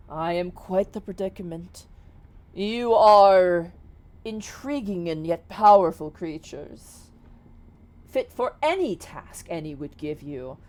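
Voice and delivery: slow, stately genie courting recruits; a touch of grandiose salesmanship, in measured phrases; lightly voiced grand genie. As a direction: proclaim it slowly, with deliberate pauses.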